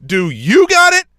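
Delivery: high, loud, slow mimicry; taunting singsong throwback at the referee; mocking echo. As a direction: parrot it back in an exaggerated high voice. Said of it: "And I went".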